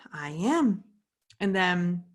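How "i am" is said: breathy whispered yes; whispered admission. Retold or imitated. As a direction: whisper it like a small confession. Admitting stress to her husband.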